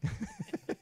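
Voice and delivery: very high-pitched robot beeping; chirpy little astromech babble in piercing high tones. Acted. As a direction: squeal out droid beeps and boops. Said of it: "Can you do it in his voice?".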